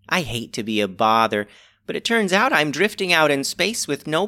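lightly voiced old lady; sweet elderly woman, gently. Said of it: "The very old woman began".

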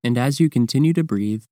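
calm, measured meditation guidance with long pauses; guided meditation. Real, not acted. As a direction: guide the listener through breathing, leaving space between phrases. Leads the breathing practice.

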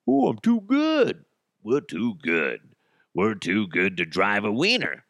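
drawn-out, put-on snob voice; mock snooty. Host mimics NASA refusing to drive a wiener, mock snooty.

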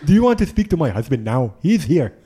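lightly imitated African accent. Ambassador's wife offering the phone, in a light African accent. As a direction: put on a slight African accent. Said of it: "do that in an African accent".

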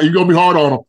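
real laughter breaking into the words; laughing. Real, not acted. Teasing co-host with an inside joke, laughing. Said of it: "I'm just laughing".

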